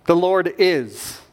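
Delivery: very slow, each word weighed; solemn slow declaration; slow emphatic. Shown as a demonstration. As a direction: lay out The Lord is word by word. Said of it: "It's the word is".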